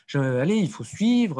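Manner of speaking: imitated teacher getting a touch impatient; mock mild exasperation; mildly annoyed teacher. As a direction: chide the class lightly, as if retelling it. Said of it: "le maître s'énerve un petit peu".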